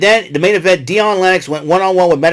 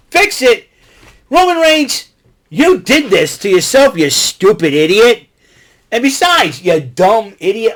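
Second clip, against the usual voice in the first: mock yell, much higher and louder; Paul Heyman yelling; 6 semitones higher, 4 dB louder than usual. Paul Heyman berates Roman Reigns, hammed-up high yell. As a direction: blast "Fix it!" high like a manager losing it at his client. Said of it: "he goes".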